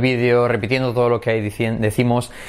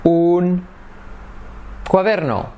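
slow pause; 2 semitones higher, much slower than usual. Shown as a demonstration. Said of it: "Variación número uno".

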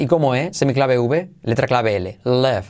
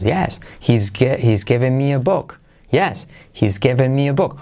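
"Yes" lifted before the sentence; intonation demo. Shown as a demonstration. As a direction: lean on "Yes" to set the tune. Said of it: "y diríamos". (entonación con "Yes" al principio)

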